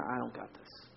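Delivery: defeated. Retold or imitated. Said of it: "and you're".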